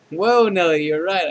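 big, loud "whoa" easing off; hammed-up loud realization; loud exclamation. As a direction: burst out in mock astonishment. Acted exclamation of sudden agreement.

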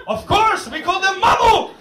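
mock Jani Toivola. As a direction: answer brightly like a proud ad man. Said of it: "Did they call up Jani Toivola".

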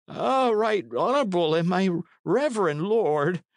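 put-on high-pitched, cringing old man's cry. A narrator's reading. Old man begging the knight's favour, high and cringing. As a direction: plead upward in a thin-pitched old man's voice. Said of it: "the man cried".

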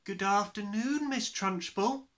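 high, drawn-out chorus of pupils; chirruped. A narrator's reading. Class answering the headmistress, chirruped. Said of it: "they chirruped".

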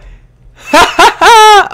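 loud high cackle; high, loud laugh. Real, not acted. Player relieved not to die, loud high laugh. Panicked laugh at a near death.

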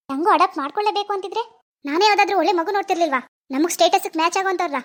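mother berating her daughter; indignant scolding. Acted. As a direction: scold with emphatic exasperation. Mother scolding daughter over adoption. (ಮಗಳನ್ನು ಸಿಟ್ಟಿನಿಂದ ಬೈಯುವ ತಾಯಿ)

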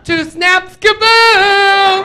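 high, loud sing-song kaboom with two snaps; sassy kaboom. Pretend. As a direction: snap twice then blow it up flamboyantly. Acting out a sassy explosion.

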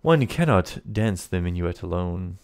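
put-on haughty introduction in a French accent; French-accented villain. Lafond introduces himself at the dance, French accent. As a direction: announce yourself grandly with a French accent. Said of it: "he asks in a light French accent".

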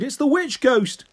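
high, slow terrified cry; screamed in fright. A narrator's reading. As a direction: cry it out in ghostly panic. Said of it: "Chloe screamed".

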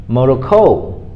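"Morocco" said carefully as a word on its own; isolated, measured "Morocco" with a clear stressed syllable; model pronunciation. Shown as a demonstration. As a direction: demonstrate "Morocco" for learners to repeat. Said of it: "learn how to say it with me".

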